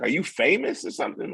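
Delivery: incredulous high question; surprised. Retold or imitated. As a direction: ask in amused disbelief. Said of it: "they was like".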